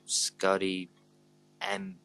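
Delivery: lightly put-on casual American accent; American passer-by. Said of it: "random American coming in being like".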